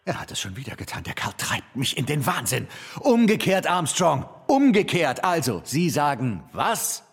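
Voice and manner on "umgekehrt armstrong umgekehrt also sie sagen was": exasperated correction. Acted. Director corrects botched line.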